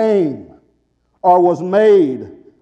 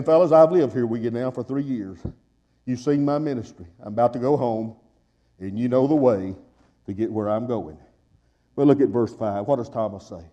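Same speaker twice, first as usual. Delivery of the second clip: hushed preaching; 7 semitones lower, 6 dB quieter than usual. Real, not acted.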